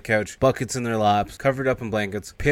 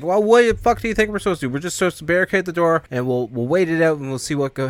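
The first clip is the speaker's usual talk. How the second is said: high, loud exasperation easing as it goes; acted heated retort, starting high; exasperated retort; 7 semitones higher, 4 dB louder than usual. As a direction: snap back, then settle into the plan. Acts Spider while everyone's freaking out.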